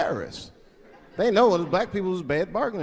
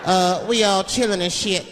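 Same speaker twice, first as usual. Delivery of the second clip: 1 mock hostage message; 4 semitones higher than usual. Imagined black hostage reading letter.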